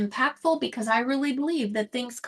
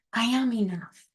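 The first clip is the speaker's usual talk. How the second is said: calm affirmation. Shown as a demonstration. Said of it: "say it like I am now".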